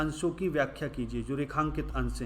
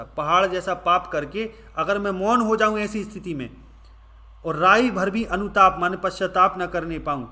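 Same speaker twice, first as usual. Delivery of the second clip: louder, impassioned paraphrase in her voice; Kaikeyi's lament; 3 semitones higher, 7 dB louder than usual. Acted. Teacher voicing Kaikeyi to the class, impassioned. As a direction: plead her remorse with force.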